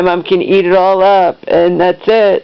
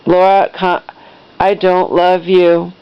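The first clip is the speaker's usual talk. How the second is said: imitated cold, measured rejection; level, unhurried and icy; calm, cold. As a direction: quote a mother's cold disowning without raising the voice. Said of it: "very calm, cold".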